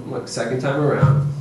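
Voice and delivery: even, unbothered parent; composed game-face firmness; calm. Shown as a demonstration. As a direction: state the rule coolly, no arguing. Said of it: "you calmly walk up, put your game face on".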